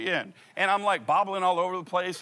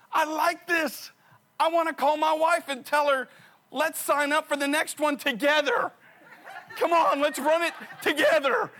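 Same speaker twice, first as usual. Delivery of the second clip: elated runner; 10 semitones higher, 5 dB louder than usual. Retold or imitated. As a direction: savor the second wind out loud. Second wind, elated runner.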